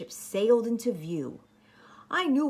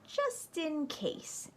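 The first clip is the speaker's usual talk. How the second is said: slow and soft; 9 semitones higher, 7 dB quieter, much slower than usual. Acted. Sly story aside.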